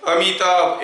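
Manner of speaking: अमिताभ said clearly, every syllable audible; measured, distinct अमिताभ for a demonstration; clearly spaced syllables. Shown as a demonstration. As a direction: give each sound of अमिताभ its room. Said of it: "ऐसे बोलूँगा तो सुनाई दे रहा है".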